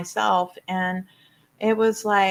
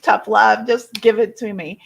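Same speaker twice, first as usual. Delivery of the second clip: louder, pleading insistence; eager plea; 2 semitones higher, 5 dB louder than usual. Retold or imitated. To her teacher, begging for tough love, louder and eager. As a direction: beg for it, whatever it costs. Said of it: "I was so taken back and I was like".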